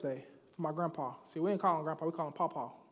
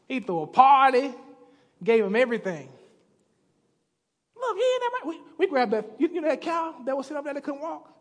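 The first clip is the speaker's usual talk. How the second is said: excited servant; 5 dB louder than usual. Retold or imitated. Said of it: "He's like".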